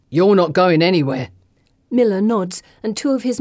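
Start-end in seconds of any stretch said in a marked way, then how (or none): 0.1-1.3 threatening thug. Acted. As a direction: growl a threat. Miller orders men.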